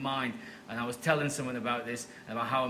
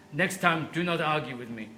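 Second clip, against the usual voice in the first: stern parting order in a mock Nigerian accent; imitated firm Nigerian woman, accent put on; terrible Nigerian accent. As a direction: scold lightly in a badly faked Nigerian accent. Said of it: "if it's a really terrible accent".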